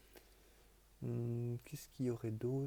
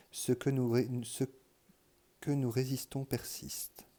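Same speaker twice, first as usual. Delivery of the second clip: louder, measured read-aloud voice; reading headings aloud; 5 dB louder than usual. Real, not acted. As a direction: read each heading out firmly, with pauses between. Reads headings aloud from a book.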